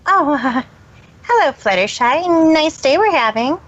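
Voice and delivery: lightly nervous greeting; a touch nervous. Acted. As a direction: say it a tad nervously. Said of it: "a tad nervously".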